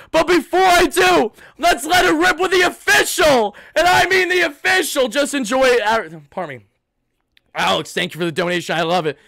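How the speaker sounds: high, shouted hype-man intro; hyped-up announcement. Real, not acted. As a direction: shout it out to launch the show. Hyping up the official post-game jingle.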